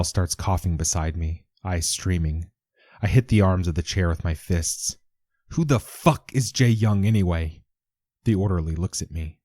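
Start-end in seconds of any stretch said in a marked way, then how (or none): 5.5-7.6 angry outburst. Acted. Hitting chair, angry outburst.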